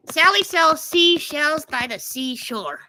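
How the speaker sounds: slow tongue twister. Shown as a demonstration. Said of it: "Um, Sally sell".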